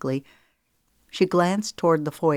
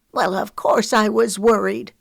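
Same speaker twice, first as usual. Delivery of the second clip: rising indignation, a bit louder; 5 semitones higher, 5 dB louder than usual. Acted. Grandma scolding Ava, voice rising. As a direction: let the worry push the voice up. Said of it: "Her voice rose".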